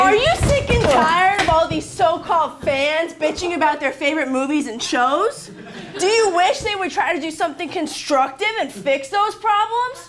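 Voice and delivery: punchy infomercial pitch; ad read. Acted. Host opening the Fixed It segment, infomercial style. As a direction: sell it like a TV ad.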